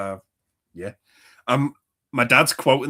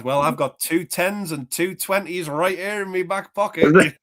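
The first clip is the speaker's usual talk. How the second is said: imitating dad; 6 semitones higher than usual. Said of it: "shit like that to me from the movie".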